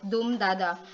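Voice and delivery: "dum dada" with stress on DUM; "dum dada" as one stressed and two unstressed beats; dactyl stress pattern. Shown as a demonstration. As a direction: beat out "dum dada", strong first, then two light. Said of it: "stressed and two unstressed syllables".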